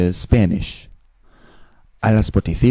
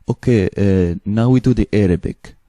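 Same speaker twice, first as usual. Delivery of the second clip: lightly put-on Eastern European accent. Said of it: "I take Eastern European accent".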